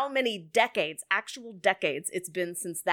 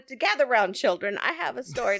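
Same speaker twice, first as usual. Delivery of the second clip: storytelling voice; 4 semitones higher, 3 dB louder than usual. Pretend. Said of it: "tell us a story, Auntie Ashley".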